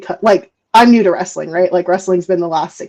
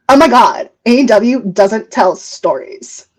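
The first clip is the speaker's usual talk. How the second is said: lightly put-on Valley Girl, drawn-out words; a touch of Valley Girl voice; dumb Valley Girl. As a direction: do a mock ditzy Valley Girl. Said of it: "The dumb Valley Girl voice now".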